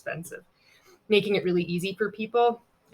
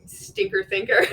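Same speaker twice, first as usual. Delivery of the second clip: 1 mocking taunt; 3 semitones higher, 6 dB louder than usual.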